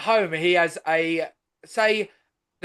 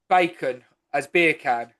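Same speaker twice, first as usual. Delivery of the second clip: Jamaican accent; 4 semitones lower, slower than usual. Shown as a demonstration. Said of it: "Jamaicans say".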